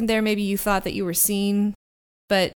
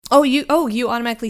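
surprised; 4 semitones higher, 6 dB louder, much faster than usual. Real, not acted. DM surprised by ring.

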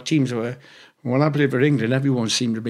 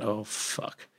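muttered curse; 3 semitones lower, 13 dB quieter than usual. Retold or imitated. Caught by the manager, swearing quietly.

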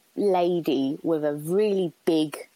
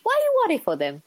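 put-on higher, louder retake of mum's accented English; 12 semitones higher, 4 dB louder, faster than usual. Showing the listener exactly how mum said it, in her accent. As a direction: exaggerate mum's accent, pitched right up. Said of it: "Like that, just like that".

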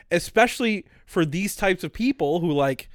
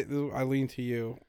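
movie theater whisper; 5 semitones lower, 13 dB quieter than usual. Retold or imitated. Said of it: "I was whispering like we're in a movie theater".

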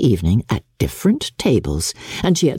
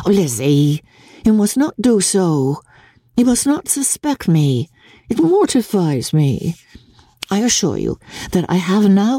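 higher, earnest sister pleading to be believed; earnest Jane; 6 semitones higher than usual. Acted. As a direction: insist you feel nothing, a touch too much. Jane protests her indifference.

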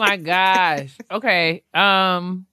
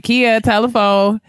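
slow sing-song call, louder; 4 semitones higher, 5 dB louder, slower than usual. Retold or imitated. Family member calling Kia to the phone, slow and loud. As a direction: call her to the phone across the house.

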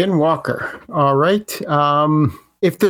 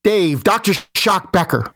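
same hype, less aggressive; toned-down announcer; 3 semitones higher, slower than usual. Shown as a demonstration. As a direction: pull it back but keep the energy. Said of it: "but, like, the same, uh, same energy".

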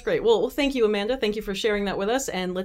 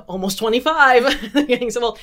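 laughing; 5 semitones higher, 8 dB louder than usual. Real, not acted. Teasing about being old.

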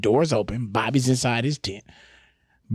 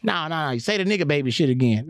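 acted insistent demand; 5 semitones higher, faster than usual. Boss demands a repeat.

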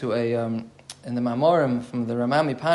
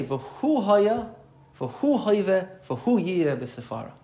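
"V'hu" picked out high, phrase by phrase; stress on each V'hu; 5 semitones higher, much slower than usual. Shown as a demonstration. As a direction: lift the hu in each "V'hu", easing off on the last. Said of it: "We're very much emphasizing the word who".

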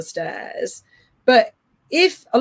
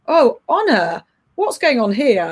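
neutral calm voice; 3 semitones higher than usual. Shown as a demonstration. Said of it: "very neutrally".

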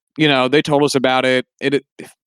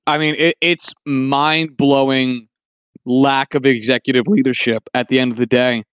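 cracking, strained voice from a cough; 3 semitones lower than usual. Real, not acted. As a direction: voice keeps cracking, worn from coughing. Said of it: "Sorry, my voice is cracking a lot".

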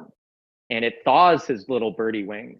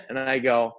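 ordinary talk

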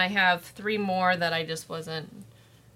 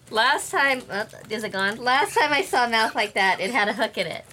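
helium voice; 3 dB louder than usual. Real, not acted. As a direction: speak with helium in your lungs. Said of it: "So I'm just gonna suck on this".

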